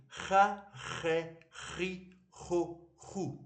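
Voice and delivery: חה, חי, חו as separate syllables with a scraped CH; throat-scratching CH. Shown as a demonstration. Teacher says "say with me", scratchy throat CH. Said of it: "scratching your throat".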